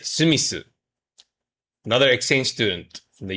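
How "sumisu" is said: Sumisu said in four even syllables, su-mi-su, not Smith; Japanese-style Sumisu. Shown as a demonstration. Teacher correcting a student's name to Sumisu. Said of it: "Not Smith".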